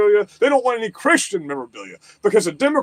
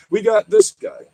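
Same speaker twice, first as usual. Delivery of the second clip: high, louder "this guy"; excited; 9 semitones higher, 3 dB louder than usual. Real, not acted. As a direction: call it out, pumped up. Excited exclamation.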